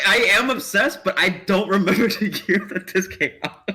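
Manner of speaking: loud, high excited outburst. Real, not acted. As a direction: blurt it out, thrilled. Excited reaction after answer.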